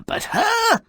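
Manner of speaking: sharp, high sneering "her"; scornful jab. Real, not acted. Narrator mocking the princess as a dinner guest, scornful. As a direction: spit out the last word.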